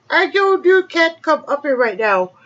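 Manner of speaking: loud, high scolding call; yelling across the room. Real, not acted. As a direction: call the cat off sharply.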